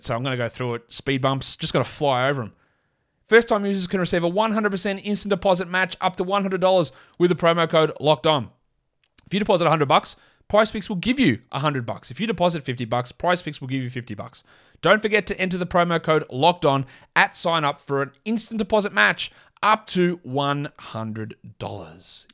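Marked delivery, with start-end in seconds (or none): 3.3-11.0 broad Australian read, words run over like speed bumps; full Australian accent. Shown as a demonstration. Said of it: "in my full Australian accent". 14.8-22.3 broad Australian accent, stretching out the last words slowly; hammed-up Aussie ad read, drawn out at the end; full Australian accent. Shown as a demonstration. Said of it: "in my full Australian accent".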